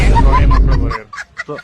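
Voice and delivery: high, loud, slow frustrated shout; exasperated yell. Acted. Officer fed up with the name mixup, high loud yell. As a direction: yell it out in disbelief.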